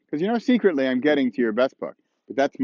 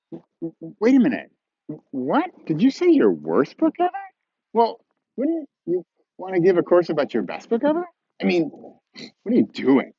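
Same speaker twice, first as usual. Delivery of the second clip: stammering, incredulous objection; negative reaction; 5 semitones higher than usual. Acted. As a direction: play a baffled critic pushing back. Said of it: "We're still in the negative".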